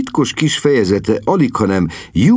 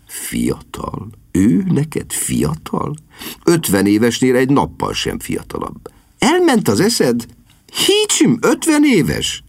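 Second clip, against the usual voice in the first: exasperated lady; 5 semitones higher than usual. Acted. Sister argues with brother.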